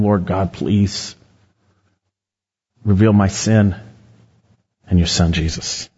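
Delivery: low, halting plea to God; humble prayer. Acted. Preacher models a prayer to the Lord God, humbly pleading. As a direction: pray it low, with pauses.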